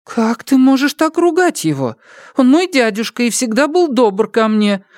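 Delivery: the mother, stung and pleading; upset mother. Acted. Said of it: "расстроилась матушка".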